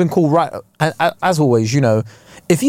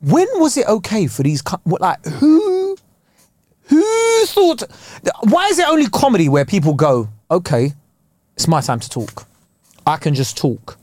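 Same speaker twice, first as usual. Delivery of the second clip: exasperated rant; 5 semitones higher than usual. Retold or imitated. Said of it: "And I'm like".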